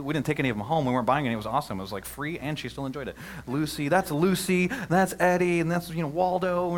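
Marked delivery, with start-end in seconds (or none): 3.5-6.7 daughter naming dogs. Retold or imitated. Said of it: "she started naming all these dogs".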